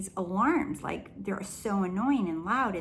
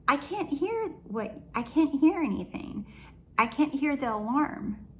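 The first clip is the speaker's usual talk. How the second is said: raised, pressing insistence that no alarm is heard; insistent disbelief; 6 semitones higher than usual. Retold or imitated. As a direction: repeat it higher, insisting, almost pleading to be believed. Insisting she hears no alarm.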